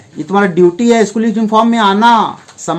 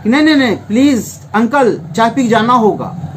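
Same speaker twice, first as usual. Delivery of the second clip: affectionate firm insistence pressing "नहीं, नहीं, नहीं"; emphatic insistence. Retold or imitated. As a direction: insist fondly that the uncle must drink the tea. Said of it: "एक होता है emphatic".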